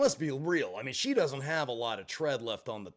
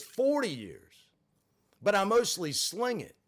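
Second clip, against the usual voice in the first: put-on old lady voice; 5 semitones higher, 4 dB louder than usual. Voicing old woman's reply.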